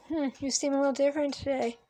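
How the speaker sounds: imitating a therapist coaxing out alters; mocking therapist. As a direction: lightly play a condescending therapist. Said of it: "So your doctor can say".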